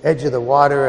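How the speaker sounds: calling out loudly to the crowd; imagined yell. Retold or imitated. John the Baptist calling to the crowd, loud. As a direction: raise the voice like a prophet at the river. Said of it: "I can imagine him yelling out".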